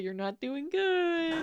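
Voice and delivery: soft, slow, careful; wary concern. Acted. Listener acting out wanting to help a scary person, hushed. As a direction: gently break it to someone you fear. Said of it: "afraid of them, but you're, like, also you wanna help them".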